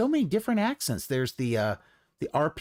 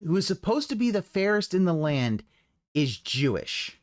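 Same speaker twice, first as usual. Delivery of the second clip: pointed quoting. Retold or imitated. Quoting the commentator back in disbelief, pointedly. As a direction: mimic his loaded phrasing, dragging the last words. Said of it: "how he said that".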